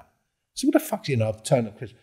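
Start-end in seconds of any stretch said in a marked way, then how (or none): 0.7-1.1 raised, heated, incredulous; retold angry outburst. To the accuser in the pub, heated disbelief. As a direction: throw it at him as if wrongly accused.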